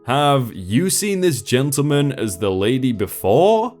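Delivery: put-on storytelling in an Indian accent. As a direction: keep the Indian accent through every voice. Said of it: "I'd like to apologize for the accent".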